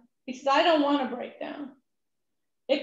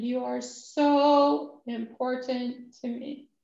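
slow sincere reassurance; slower than usual. Retold or imitated. Reassuring the humbled man.

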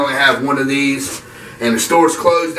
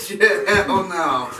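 laughing; 4 semitones higher, 3 dB quieter, slower than usual. Real, not acted. Laughing, refusing to drink more.

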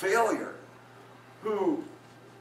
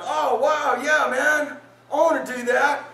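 higher, louder mock enthusiasm; excited crowd; 10 semitones higher, 7 dB louder than usual. Listeners responding eagerly to the sermon, mock excitement. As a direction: gush like an eager crowd member. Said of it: "They were going".

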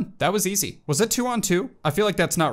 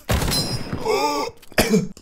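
high startled gasp; sharp gasp; 10 semitones higher than usual. Real, not acted. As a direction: gasp in shock at the game. Shocked during a fight.

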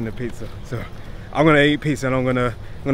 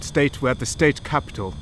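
quiet attempt at a British accent; light mock British accent; 4 dB quieter than usual. Shown as a demonstration. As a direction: try the line as a Brit. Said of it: "If I say it with a British accent, it sounds weird".

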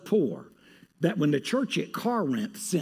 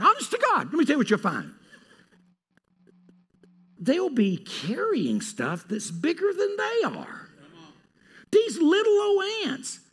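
high-pitched amazement; marveling; 12 semitones higher than usual. Real, not acted. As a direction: wonder at the tiny ants. Preacher marveling at ants.

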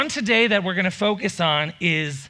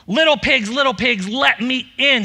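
higher, louder hammed wolf demand; wolf growling; 5 semitones higher, 3 dB louder than usual. Hungry wolf at the brick house, hammed-up growl. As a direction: bang on the door in a wolf voice. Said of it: "he growled".

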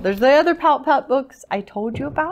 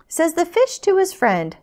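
higher-pitched storybook lilt; story narration; 8 semitones higher, 4 dB louder than usual. A narrator's reading. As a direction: read it out to little listeners. Reads picture book to children.

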